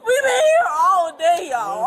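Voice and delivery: slow, tearful plea; upset pleading. Real, not acted. Woman explaining missed flight to officers, upset pleading. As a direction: plead slowly, near tears. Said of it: "We just emotionally frustrated".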